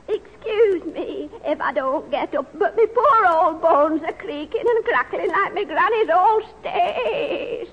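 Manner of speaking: lightly voiced old woman; a hint of creaky granny. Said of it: "I could be old, couldn't I?".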